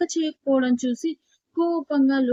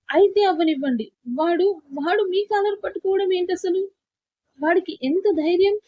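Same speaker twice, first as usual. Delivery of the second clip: tearful and indignant, higher pitch; upset wife protesting through tears; mild tearful outrage; still crying; 6 semitones higher than usual. A narrator's reading. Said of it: "అని మైరా ఏడుస్తూనే అంటుంటే".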